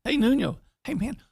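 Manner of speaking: high, casual greeting; friendly buddy. Acted. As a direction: call to him like an old pal. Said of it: "like, like a buddy".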